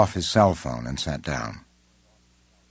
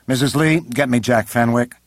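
calling out an order; 6 semitones higher, 5 dB louder than usual. A narrator's reading. President orders secretary over intercom.

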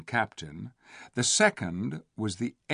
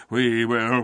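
growling; 5 dB louder than usual. A narrator's reading. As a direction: growl it as a mob. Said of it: "growled the beasts".

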